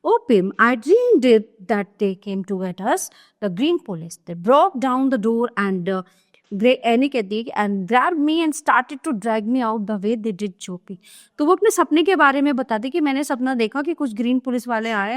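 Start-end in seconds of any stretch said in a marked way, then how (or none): 0.0-6.8 slow, deliberate reading of a stage script; slow classroom reading of a play; play read aloud. Acted. Reads Anne's dream line. 7.5-11.0 slow, deliberate reading of a stage script; slow classroom reading of a play; play read aloud. Acted. Reads Anne's dream line.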